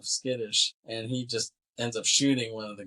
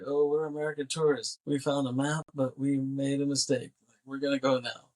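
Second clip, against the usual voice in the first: higher, lightly voiced excuse-making; imitated nervous tourists; 4 semitones higher than usual. Tourists placating armed farmers, lightly acted. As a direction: talk your way out, pitched up.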